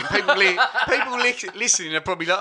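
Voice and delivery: words cut off by hiccups; hiccuping and laughing mid-word. Real, not acted. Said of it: "Excuse me, I keep hiccuping".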